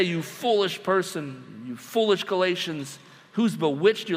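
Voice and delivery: a calmer rebuke for contrast. Shown as a demonstration. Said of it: "You don't just say".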